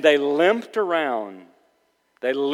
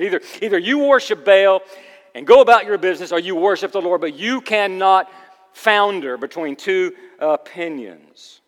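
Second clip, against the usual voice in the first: raised, higher preaching voice; forceful challenge; 6 semitones higher, 8 dB louder than usual. Acted. Preacher voicing Elijah challenging all the people, forceful. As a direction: confront the crowd, hammering the key words.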